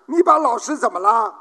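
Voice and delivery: fast, sharp scolding father; mock angry dad. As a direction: demand an answer from the kid. Father scolds son in joke.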